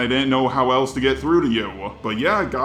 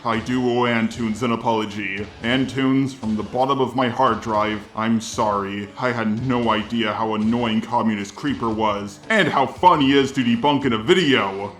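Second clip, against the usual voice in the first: robot voice. Shown as a demonstration. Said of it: "doing this response in the robot voice".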